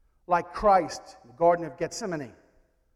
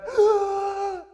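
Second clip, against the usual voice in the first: deep gasp; 12 semitones higher than usual. Acted. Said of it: "took a deep breath".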